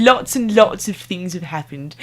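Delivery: a touch of a British accent, slow; drifting into mild British English; slight British accent. Real, not acted. Vlogger to viewers, unplanned slight British accent. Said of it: "I don't know why I'm going into a little bit of a British accent".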